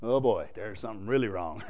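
low, knowing mock dread; dreading aside. Acted husband realizes wife is upset, low dread. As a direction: drop low, as if realizing you're in trouble.

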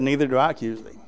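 gentle forgiveness. Acted. Jesus answers the accused woman.

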